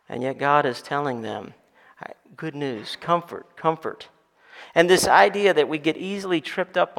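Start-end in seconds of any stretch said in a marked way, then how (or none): 2.4-4.1 soft, gentle, falling comfort; quietly reassuring, softer; tender comfort. Retold or imitated. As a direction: soothe them with each word. God's tender message of comfort.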